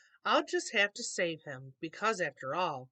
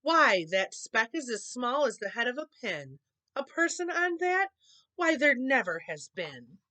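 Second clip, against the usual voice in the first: sour kangaroo; 5 semitones higher, 5 dB louder than usual. A narrator's reading.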